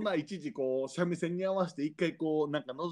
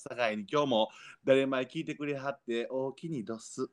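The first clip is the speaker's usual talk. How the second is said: Kyoto dialect. Acted. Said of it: "控えめなおおきにで".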